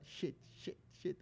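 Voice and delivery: unvoiced muttering of shit, shit, shit; whispered shit, shit, shit; muttered. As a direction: mutter it under the breath while sorting papers. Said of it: "E eu toda hora".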